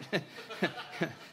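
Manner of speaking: short soft breathy chuckle. Real, not acted. Preacher amused at poor stereotyped Thomas, soft chuckle. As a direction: laugh lightly at your own remark.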